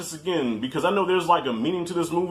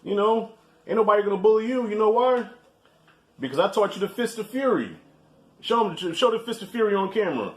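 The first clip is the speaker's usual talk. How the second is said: proud dad hype; 5 semitones higher than usual. Real, not acted. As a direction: hype your son up, grinning. Talking to his son off-camera.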